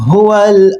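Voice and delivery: ہوال with a throaty ha; deep ha. Shown as a demonstration. Teacher models the throat ha of ہوال. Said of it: "وہاں سے ہا ادا ہوگی".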